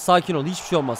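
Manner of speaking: calming himself down; self-soothing. Real, not acted. Calming himself after conceding.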